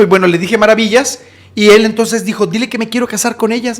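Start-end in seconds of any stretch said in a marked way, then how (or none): 2.5-3.8 softer, slightly raised request; subdued plea. Retold or imitated. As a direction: make the request before breaking out. First, held-back take of plea.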